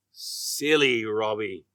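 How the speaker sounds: usual speaking voice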